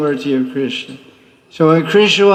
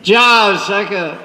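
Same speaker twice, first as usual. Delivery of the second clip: Radharani sweet-talking. Acted. Radharani voiced praising Tulsi Manjari.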